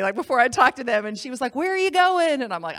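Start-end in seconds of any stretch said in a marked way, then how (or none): 1.5-2.4 mock yell. Shouting over band.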